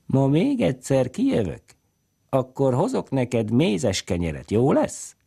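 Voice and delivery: high, gentle offer, slowing down; coaxing promise. A narrator's reading. Man promising the girl honey bread, a high coaxing voice. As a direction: tempt the child with a treat.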